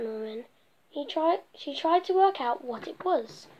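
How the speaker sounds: lively storybook narration read aloud; reading to children. A narrator's reading. Storyteller reading a picture book to children, lively. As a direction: tell the bee story to little listeners.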